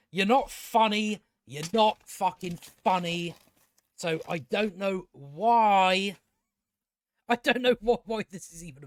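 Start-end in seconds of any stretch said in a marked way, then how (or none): 0.1-6.2 slow, deliberate rebuke, key words drawn out; exasperated emphasis. Real, not acted. Reviewer telling the show's makers off, exasperated. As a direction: lean slowly on "not" and stretch "why".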